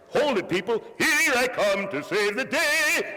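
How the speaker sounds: high, slow, hammed-up hero cry; grand superhero entrance, played for laughs; mock superhero. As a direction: announce the rescue like a cartoon hero. Mock superhero rescue call.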